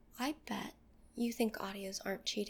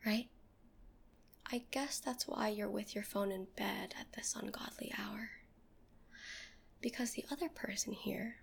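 seductive whisper. Acted. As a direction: breathe every word close to the mic.

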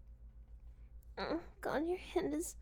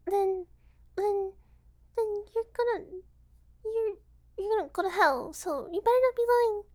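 loud, emphatic warning; 5 dB louder than usual. Acted. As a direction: press the threat home loudly. Warns against breaking the promise.

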